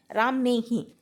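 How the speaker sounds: ही pressed firmly; stress on ही. Shown as a demonstration. Teacher to pupils, stressing ही firmly. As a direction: lean on ही. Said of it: "तो ही पर जोर आ रहा है ना इसमें".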